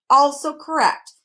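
yawning. A narrator's reading. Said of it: "yawned the math magician".

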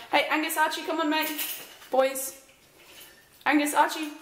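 calling the dogs outside. Real, not acted.

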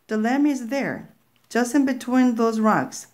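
a hint of a sly witch luring the girl; witch's voice. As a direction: point the way with false kindness. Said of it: "the witch said".

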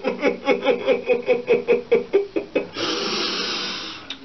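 long high wheezy giggle; helpless laughing. Real, not acted. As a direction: laugh on until it fades out. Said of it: "I'm not gonna stop laughing".

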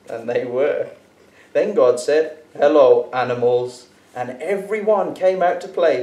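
lively storybook reading, God's lines bold; animated children's story narration; reading to a child. A narrator's reading. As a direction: read it aloud like a bedtime Bible story. Reads a picture Bible to Daniel.

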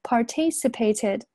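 "participated" slowly, stress on TI, the second syllable; later stress. Shown as a demonstration. Teacher modelling for students, slow "participated" with later stress. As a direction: lean on TI in "participated". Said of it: "这个地方重音在后面".

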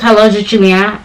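brusque mock phone greeting; rude caller. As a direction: imitate a caller skipping all the niceties. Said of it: "And so rude".

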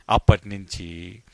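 usual speaking voice

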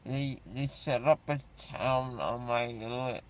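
numb from the dentist. Real, not acted. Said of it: "my face is really big".

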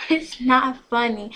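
loud, slow, indignant yell; mad yell. A narrator's reading. Girl yells at friend who laughs at her, mad. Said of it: "I yelled, getting mad".

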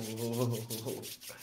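soft, low drawn-out chuckle. Real, not acted. Chuckles while waiting.

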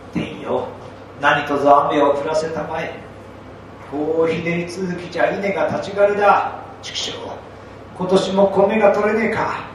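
rough, anxious village farmer; worried farmer. Acted. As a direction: fret like a peasant facing famine. Farmers lament the drought.

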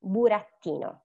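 BURATTINO with the stress on TI, bu-rat-TI-no; stress next to last. Shown as a demonstration. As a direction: lean on the I of BURATTINO. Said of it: "is the E in burattino".

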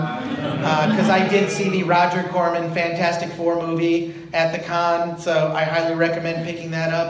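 monotone robot voice. Real, not acted. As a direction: talk like a stiff robot. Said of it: "Why are you talking like a robot?".

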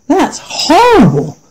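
high, slow, whimpering dismay; horrified little goat. A narrator's reading. Little goat hearing the troll eats goats, high and whimpering. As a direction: let it wobble with fright. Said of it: "said the little one".

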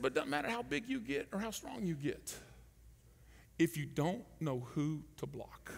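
soft whisper; quiet, intense fatherly whisper; whispered warning. Retold or imitated. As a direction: lean in and whisper the point. Coach's quiet lesson.

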